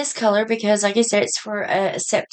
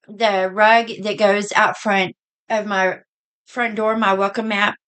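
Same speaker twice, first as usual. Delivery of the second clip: hiccups. Real, not acted. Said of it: "I have the hiccups back".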